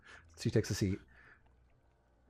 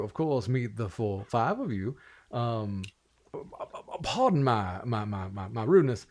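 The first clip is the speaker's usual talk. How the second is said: lightly voiced folksy Southern gentleman, impressed; rambling, genteel Southern host; courtly Southern lord president; 3 dB louder than usual. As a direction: welcome them with fussy Southern courtesy. Game master plays Samuel.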